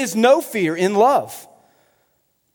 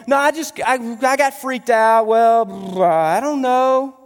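flustered excuse; 4 semitones higher, slower than usual. Acted. Acts flustered freaked-out visitor making excuses.

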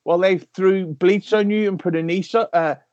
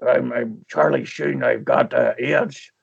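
put-on Charlie Sheen in a low Irish accent; slow, low Irish-accented Sheen; 5 semitones lower, slower than usual. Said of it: "do it in the Irish accent".

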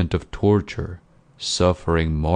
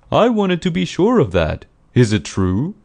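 higher-pitched, emphatic questioning; inquiring gentleman; 10 semitones higher, 4 dB louder than usual. A narrator's reading. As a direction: press her for the truth. Friend questions the woman, acted by narrator.

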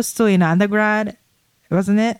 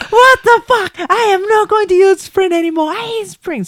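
high-pitched mock outrage; hammed-up, high indignant rant; imitated upset outburst; 11 semitones higher, 3 dB louder than usual. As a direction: imitate a friend fed up and indignant. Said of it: "she was so upset. She's like".

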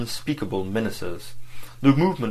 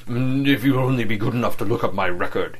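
booming bass; 4 dB louder than usual. Acted. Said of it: "he boomed out in his great".

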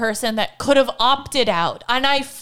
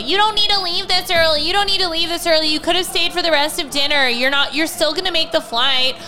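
complaining; 2 semitones higher than usual. Retold or imitated. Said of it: "bitched and moaned and complained".

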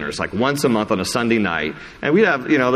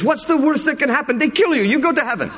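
much higher, lively imitation of a friend; imitating Daniel. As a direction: pitch it way up to mimic Daniel inviting you. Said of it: "then he jokes. He goes".

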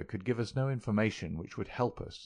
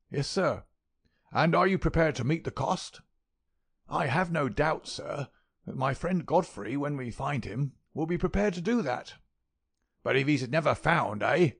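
put-on high, louder crackling old voice; querulous old miser; 6 semitones higher, 3 dB louder than usual. A narrator's reading. Miser demanding who will pay, high querulous old voice. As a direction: grill the young man about cost.

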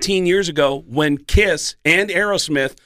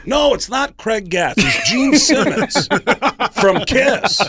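high, slow, laughing rock-star voice; rock-star impression; 9 semitones higher, 3 dB louder, slower than usual. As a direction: insist you're a famous rock star. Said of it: "And he goes".

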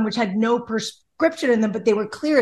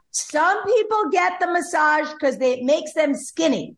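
higher, slow, emphatic quote; lightly voiced Brazilian masseuse; 6 semitones higher than usual. Retelling what the Brazilian masseuse said, lightly voiced. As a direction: lightly act out the masseuse explaining. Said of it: "she's got this beautiful accent".

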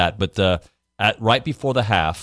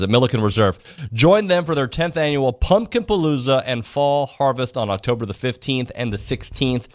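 upbeat radio ad read. Acted. Host reads a pumpkin festival promo, ad read. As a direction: sell the fall festival to listeners.

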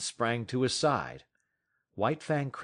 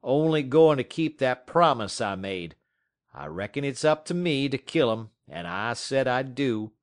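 Matt's stubborn voice; 3 semitones higher, 6 dB louder than usual. Acted. Dog musher insisting he'll shoot the dog, louder and stubborn. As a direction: insist on keeping the promise.

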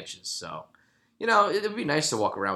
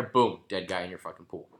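ordinary talk, nothing marked

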